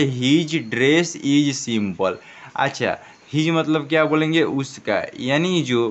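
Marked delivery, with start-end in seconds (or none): 0.0-2.2 very slow, each word spelt out for pupils; slow model reading. Shown as a demonstration. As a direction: read it out slowly like a teacher. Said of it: "तो हम लोग यहाँ पर क्या पढ़े". (धीरे-धीरे साफ़ पढ़कर सुनाना)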